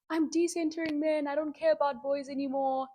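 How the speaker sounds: a hint of a sassy girl; mocking girlie. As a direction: parody a trendy girl's declaration. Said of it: "here come the girlies".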